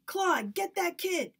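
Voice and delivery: high, loud, slow command; man ordering a worker to grab the boy; angry order. Acted. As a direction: bark the order at Claude.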